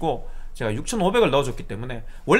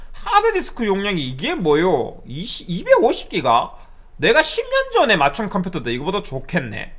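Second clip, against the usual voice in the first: higher, drawn-out mock complaint; scoffing customer; 4 semitones higher, slower than usual. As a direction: imitate a caller griping about the specs. Retelling customer scoffing at specs.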